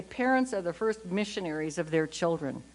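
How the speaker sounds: hint of a pastor laying down the law from the pulpit; imitating the stern pastor. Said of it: "my pastor used to scare the devil out of me".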